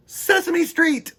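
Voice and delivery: excited reveal. A narrator's reading. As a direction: announce it like a grand surprise. Big reveal of the show name.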